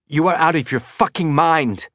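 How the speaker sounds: high, tight, pinched voice. Acted. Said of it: "his voice high and tight".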